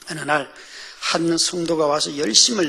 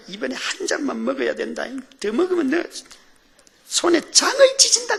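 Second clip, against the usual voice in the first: high-pitched scolding, rising to loud threat; nag, climbing higher toward the threat; nagging wife; 10 semitones higher, 3 dB louder than usual. Acted. Wife limiting husband's drinking, nagging and threatening.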